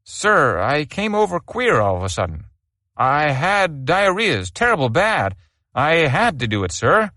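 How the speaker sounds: a frightened private singing his excuse; nervous sing-song. Acted. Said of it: "in a nervous sing-song".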